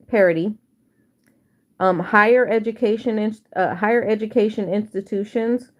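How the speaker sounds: talking with a retainer in; words slurred round a retainer; wearing a retainer. Real, not acted. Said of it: "I got my retainer in".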